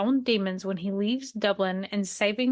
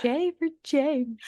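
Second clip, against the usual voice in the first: dramatic voice; 5 semitones higher, slower than usual. Pretend. Echoing in a put-on voice.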